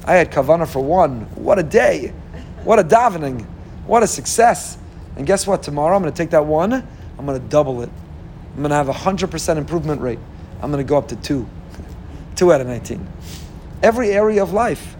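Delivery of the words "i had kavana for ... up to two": upbeat good inclination. Acted. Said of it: "Yetzer Hatov says".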